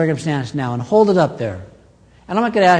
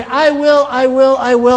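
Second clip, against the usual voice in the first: loud, high, emphatic "I will" repeated; booming declaration; 8 semitones higher, 5 dB louder than usual. Acted. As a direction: proclaim it like a promise that can't fail. Preacher voices God's emphatic promise.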